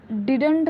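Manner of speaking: डिडंट in two full syllables, did-unt; mispronounced didn't. Shown as a demonstration. Teacher recalling her old mistake to students, mispronounced. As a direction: say डिडंट with a full vowel before the n. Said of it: "ये डिडंट नहीं होता है".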